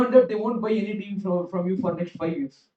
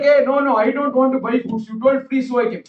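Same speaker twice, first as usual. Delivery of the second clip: protesting friends; 3 semitones higher, 5 dB louder than usual. Retold or imitated. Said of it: "His friends are like".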